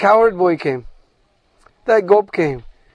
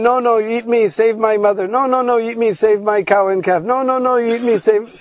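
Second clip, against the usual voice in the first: mildly acted plea, pitched up; light, insistent begging in repeated bursts; 4 semitones higher than usual. Each begs the lion to eat them instead, lightly pleading. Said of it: "each one was begging".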